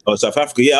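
ordinary talk, nothing marked

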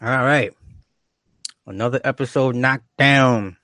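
talking while cracking seeds; cracking sunflower seeds. Real, not acted. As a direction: mouth busy with sunflower seeds. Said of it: "I'm sorry I'm being rude. I'm eating sunflower seeds".

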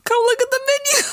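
high squeaky come-on voice; mock seductive falsetto. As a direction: tease it in a silly high voice.

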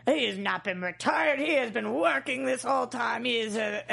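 slow, gruff ogre voice; lightly voiced gruff ogre; gruff ogre Mike impression. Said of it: "should I channel my inner Mike".

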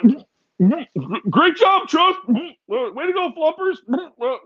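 high, sing-song praise to a cat; pet voice. Retold or imitated. Sarcastically praising his cat for the dead mice, high pet voice. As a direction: gush at the cat like it's a baby.

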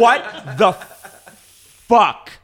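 drawn-out, high and loud, mock horrified; a hammed-up horrified what the fuck, very slow; stunned disbelief. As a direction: stretch it out in slow shocked disbelief. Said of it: "I was like".

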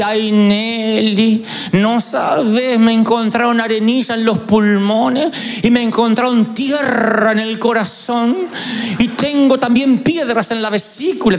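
mildly mock-whiny aunt listing ailments, the first words slow; lightly voiced complaining aunt; a hint of a self-pitying aunt; gloomy aunt. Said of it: "dejaba una mala onda en la casa, así".

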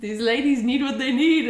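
high, prim, eager-to-please voice; lightly prissy service voice; polite and uppity. Retold or imitated. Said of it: "polite and uppity".

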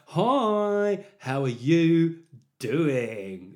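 loud, drawn-out mock greeting, high then falling; hammed-up public hello; YouTuber-style greeting. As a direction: stretch every word like an over-the-top vlogger. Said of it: "people just speak like that".

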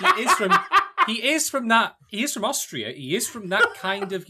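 hammed-up Austrian accent, laughing; mock Arnie accent. Host mocks his cohost's failed accent in a loud Austrian voice. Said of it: "gonna do Arnie next".

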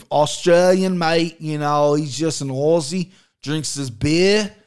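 lightly attempted Aussie accent, drawn out; bad Australian accent. Host joking about an Aussie fighter, badly faked Australian accent. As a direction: have a half-hearted go at sounding Australian. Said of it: "I can't do an Australian accent".

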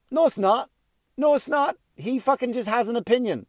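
high, sharp indignant denial; indignant outburst. Real, not acted. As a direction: shoot it down, exasperated. Indignant rebuttal to mother.

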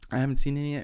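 usual speaking voice

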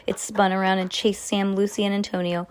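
usual speaking voice

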